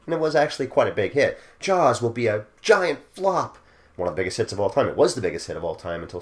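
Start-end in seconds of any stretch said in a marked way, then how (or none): 1.6-3.6 mock pundit. Mocking pundits' predictions.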